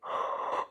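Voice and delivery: big audible yawn. Real, not acted. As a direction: yawn mid-sentence. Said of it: "pardon the yawning".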